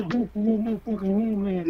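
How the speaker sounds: normal talking voice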